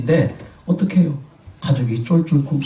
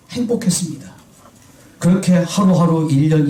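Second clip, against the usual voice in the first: normal talking voice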